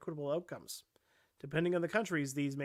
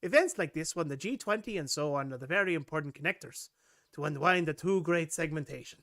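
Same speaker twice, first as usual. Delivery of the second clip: lightly voiced Scottish accent on the Schwab quote. Shown as a demonstration. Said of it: "I was doing this Scottish".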